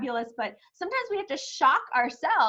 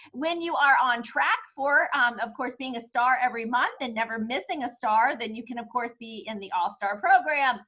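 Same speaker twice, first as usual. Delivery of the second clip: slightly winded while talking; out of breath. Real, not acted. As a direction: talk a bit short of breath. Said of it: "I'm getting out of breath".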